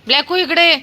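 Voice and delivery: high, loud call to the dog. Real, not acted. Woman calling her dog over to eat, high loud call. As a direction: sing out the dog's name across the yard.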